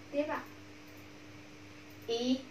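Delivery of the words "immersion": immersion split into i-mer-sion with long pauses; syllable by syllable. Shown as a demonstration. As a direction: draw out each syllable of immersion. Teacher breaks word into syllables.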